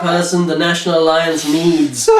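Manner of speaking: hammed-up recruiter voice; mock villain mentor. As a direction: read a creepy mentor with a laugh. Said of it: "comic book dialogue read out".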